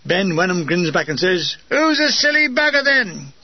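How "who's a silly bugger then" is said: lightly voiced grinning gunner, a touch higher; teasing soldier. A narrator's reading. Gunner grinning back at the narrator, lightly teasing. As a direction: tease it back with a grin.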